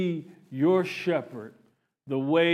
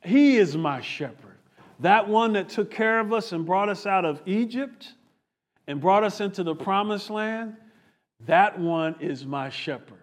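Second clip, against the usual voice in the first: voicing David; 3 semitones higher than usual. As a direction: speak as the king who has his own shepherd. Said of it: "he's like".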